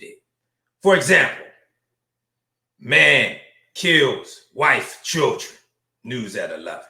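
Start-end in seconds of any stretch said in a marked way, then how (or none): 2.8-6.8 slow, hushed newsreader, dropping low at the end; understated news headline. Acted. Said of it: "That's how you know it's a white man".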